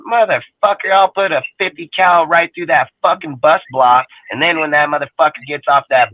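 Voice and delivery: loud, high, furious threat; angry shout. Real, not acted. Man ranting to his friend about intruders, angry shout. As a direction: yell it like you're defending your land.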